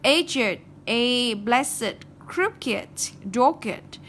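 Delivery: "Aged, blessed, crooked, dogged" each in two syllables ending id; adjective -ed as extra syllable. Shown as a demonstration. Teacher listing exceptions to memorise, -ed as its own syllable in "Aged, blessed, crooked, dogged". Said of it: "Tất cả đọc là ực hết nhá".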